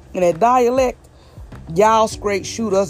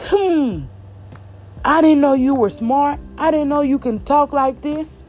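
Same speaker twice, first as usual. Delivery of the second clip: higher-pitched mock amazement; put-on higher voice, mildly astonished; mock surprise; 5 semitones higher than usual. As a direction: imitate a condescendingly surprised listener. Acted reaction of condescending listeners.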